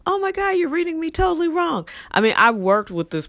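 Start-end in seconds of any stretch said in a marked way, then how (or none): 0.1-1.9 mock offended. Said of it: "she'd be like".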